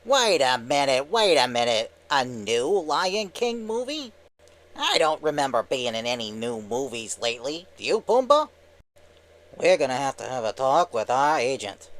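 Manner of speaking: lightly voiced indignant cartoon wise guy; Timon. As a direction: object like a cheeky cartoon sidekick. Skit voicing Timon.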